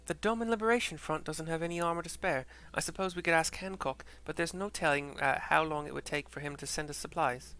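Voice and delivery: a hint of an American accent; put-on accent. Woman discussing armor supplies, light American accent. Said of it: "I'm so sorry for this accent".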